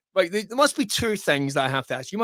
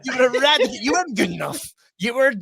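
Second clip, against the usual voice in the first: emphatic, higher, hammered-out mock verdict; mock dramatic; 4 semitones higher, 5 dB louder than usual. Joking about what happened to second place, mock dramatic. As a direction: pronounce a comic death sentence, louder.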